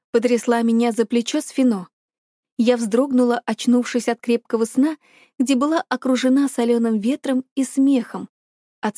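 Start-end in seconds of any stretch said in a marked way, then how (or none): none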